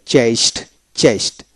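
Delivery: চেস্ট for chased, closed on t; final D as T. Shown as a demonstration. Teacher repeating after the rule, চেস্ট with final t. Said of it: "ডিতে ট উচ্চারিত হবে".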